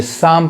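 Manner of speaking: शाम with silent P and L; correct pronunciation. Shown as a demonstration. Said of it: "पी नहीं पढ़ाएगा और यहाँ एल नहीं पढ़ाएगा". (शाम, पी और एल को खामोश रखकर)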